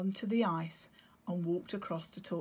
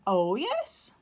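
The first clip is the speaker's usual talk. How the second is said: calm father penguin; 3 semitones higher, 7 dB louder than usual. Acted. Nero voiced.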